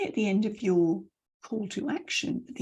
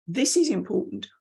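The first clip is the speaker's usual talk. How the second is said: "important" falling firmly; downward ending. Shown as a demonstration. Coach giving a command, "important" stepping down. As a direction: land "important" decisively. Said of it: "and the down".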